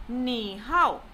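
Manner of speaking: "ni hao" slow, dipping low; third-tone demonstration of "ni hao"; falling-rising tone. Shown as a demonstration. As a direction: stretch "ni hao" through a dip. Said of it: "said in a falling rising tone".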